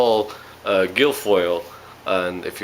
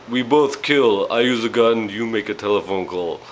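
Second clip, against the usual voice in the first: fake Russian accent; 2 semitones higher than usual. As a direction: put on a bad movie-villain Russian accent. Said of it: "fake Russian accent".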